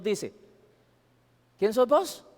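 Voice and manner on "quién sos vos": raised, louder voice of God the judge; God's stern question. Acted. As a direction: ask it as God demanding an answer. Preacher voices God at judgment.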